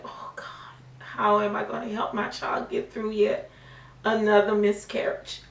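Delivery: soft breathy plea to God; hushed plea. Retold or imitated. Mother seeing the scan, praying to God in near silence. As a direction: murmur the worried prayer under your breath.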